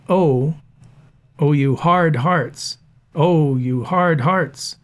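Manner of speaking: "oh" stressed, "you" unaccented, both "hard" and "hearts" weighted. Shown as a demonstration. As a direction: lean into "Oh", then land heavy on "hard hearts". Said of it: "you" is unaccented, making a trochee".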